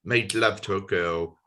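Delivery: lightly performed verse, strong attack then falling; measured verse reading with pauses; comic poem recitation. Acted. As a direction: recite the silly poem line by line.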